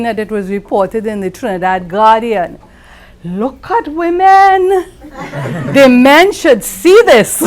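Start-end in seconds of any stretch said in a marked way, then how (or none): 3.2-7.4 high, loud, laughing through the quote; laughing exclamation. Retold or imitated. The speaker quoting Beryl McBurney at the dinner, laughing. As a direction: relish the surprise and laugh through it. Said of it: "she was heard saying".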